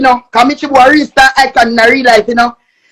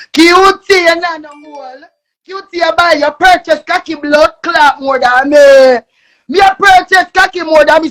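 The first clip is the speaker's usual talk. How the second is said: angry; 2 semitones higher, 3 dB louder than usual. Real, not acted. Heated rant escalating.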